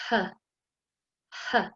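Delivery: breathy h demonstrated; h sound. Shown as a demonstration. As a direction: breathe out a clean h. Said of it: "revising the sound".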